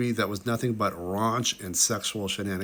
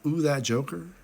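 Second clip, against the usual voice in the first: lightly voiced Joker; 4 semitones higher than usual. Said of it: "Doesn't that look like that?".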